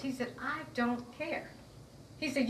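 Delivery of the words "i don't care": slow, higher-pitched imitated dismissal; retold dismissal. Officer answering her hurt head, slow dismissal. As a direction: stretch it out, rising at the end.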